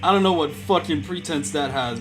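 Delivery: ordinary talk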